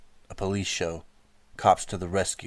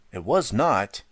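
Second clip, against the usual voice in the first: put-on loud child's retort; little sister contradicting her brother; indignant protest; 3 semitones higher, 6 dB louder, slower than usual. A narrator's reading. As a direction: snap back at the brother.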